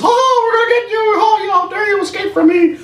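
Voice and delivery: high, far-off squeaky cartoon villain; hammed-up villain taunt; mock Mickey villain. Mickey Mouse taunting escaping heroes, mock villain squeak.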